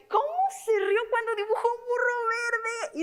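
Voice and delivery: high, swooping storytelling question, full of wonder; expressive read-aloud. Shown as a demonstration. Teacher reading a story to children, high and expressive. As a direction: hook the kids with a big, lilting question. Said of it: "Si yo no hago esa entonación".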